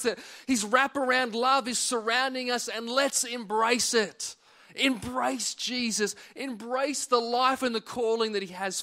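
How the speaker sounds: earnest preacher urging the church; sermon preaching. Acted. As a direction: exhort the congregation to embrace their calling.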